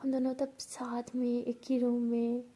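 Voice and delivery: whispery, lovestruck musing; happy daydreaming. Acted. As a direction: daydream aloud with longing. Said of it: "ऐसे सोच के बहुत ज़्यादा खुशी". (ख़ुशी से सपनों में खोई आवाज़)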